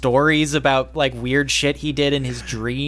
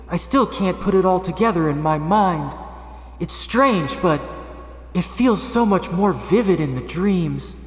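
lightly voiced teen voiceover; 4 semitones higher than usual. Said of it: "Danny, now in voiceover".

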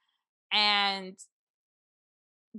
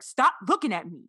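mild mock yell, a bit louder; retold yell; 4 dB louder than usual. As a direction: order someone off, imitating a yell. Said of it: "Who is he yelling at?".

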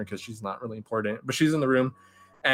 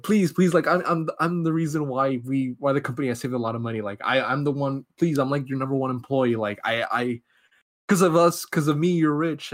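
pleading; 2 semitones higher than usual. Retold or imitated. Retold employee begs for his life, mock pleading. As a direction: plead your case in a rush of excuses.

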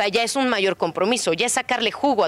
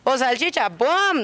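slow, higher playful dog voice; dog's thoughts; 5 semitones higher, slower than usual. Acted. Trainer voicing the dog deciding between sock and sausage, playful and slow. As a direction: voice the dog choosing the treat. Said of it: "el perro dice".

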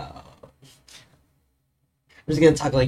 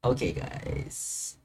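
slow, lower drawn-out cartoon voice; Lumpy Space Princess voice; 10 semitones lower, 8 dB quieter, much slower than usual. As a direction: drag the words out lazily. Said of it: "remember Lumpy Space Princess".

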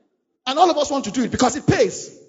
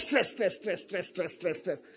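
each stress softer, dying away; fading repetition; 4 semitones lower, 10 dB quieter, slower than usual. Acted. Preacher fading out on the word stress. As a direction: let the word fade into nothing.

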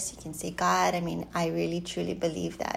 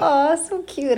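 gushing reaction; 9 semitones higher, 7 dB louder than usual. Retold or imitated. Re-enacts her reaction to being asked.

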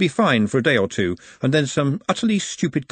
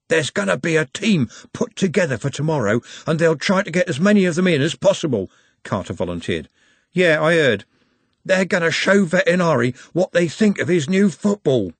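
Carter voice; 6 semitones higher than usual. Acted.

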